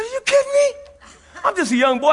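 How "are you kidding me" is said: high incredulous cry; disbelief. Retold or imitated. Young boy told no more Coca-Cola, high disbelief. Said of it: "I said".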